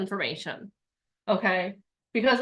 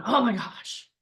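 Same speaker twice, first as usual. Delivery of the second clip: mock fearful. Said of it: "that fear comes in".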